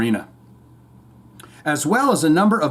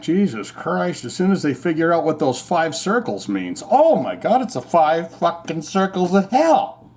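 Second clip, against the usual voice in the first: mock conspirator; 2 semitones higher than usual. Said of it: "created the Olympics went".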